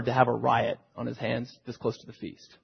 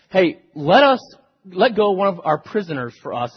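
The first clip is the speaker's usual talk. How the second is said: crowd calling out; 5 semitones higher, 7 dB louder than usual. Retold or imitated. Crowd implores Pilate.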